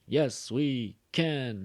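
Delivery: slow, lightly voiced rally chant; a hint of a campaign speech; Obama slogan. Teacher imitating Obama's slogan, slow and mock-grand. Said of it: "like Obama stuff".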